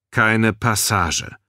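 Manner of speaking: slow, rumbling guard; rusty-engine growl. A narrator's reading. Guard blocks the stairway, slow rumbling growl. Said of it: "grollte eine Stimme wie ein verrosteter Baggermotor".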